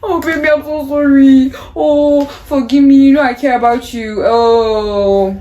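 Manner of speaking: hammed-up pleading, loud and drawn out; theatrical grovelling boyfriend; begging apology. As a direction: wail a mock apology on your knees. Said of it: "his apologies were the best".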